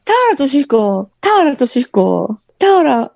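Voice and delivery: goofy impression of a singer. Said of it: "声高く、バカっぽく".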